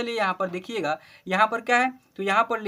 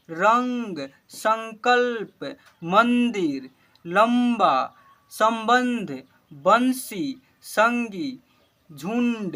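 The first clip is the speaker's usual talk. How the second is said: each word called out louder and clear, one by one; loud word-list reading; 3 dB louder, much slower than usual. Shown as a demonstration. Teacher calling out Hindi words to pupils, loud and clear. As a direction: read every word out loud for the class to repeat.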